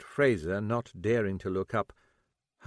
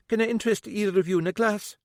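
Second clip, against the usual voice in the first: put-on genteel older lady; 11 semitones higher, faster than usual. The speaker's voice, higher.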